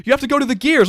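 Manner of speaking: high, loud exasperated yell; mock yelling friend. Friend shouting directions over voice chat, loud and high. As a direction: shout the instruction back at him. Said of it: "He goes".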